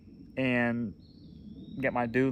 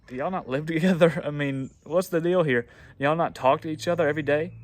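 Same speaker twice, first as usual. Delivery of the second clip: louder, laughing incredulous question; laughing disbelief; 2 semitones higher, 5 dB louder than usual. Retold or imitated. Contractor asking the husband why the couple don't talk, laughing in disbelief. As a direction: laugh it off as if it's absurd.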